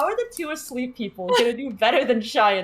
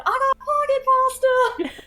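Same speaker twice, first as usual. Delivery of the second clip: mock yell; 14 semitones higher than usual. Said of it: "Brooks in the corner yelling".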